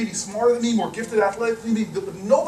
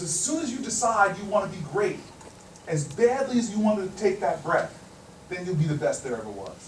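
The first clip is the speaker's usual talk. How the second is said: dropping lower and softer to the end; low, grave advice; 5 semitones lower, 7 dB quieter than usual. Retold or imitated. Big man gives parting advice at the door, low and grave. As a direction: deliver the lesson quietly, sinking in pitch.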